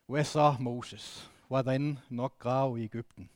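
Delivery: ironic Vendsyssel dialect. Retold or imitated. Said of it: "Det driver med ironi".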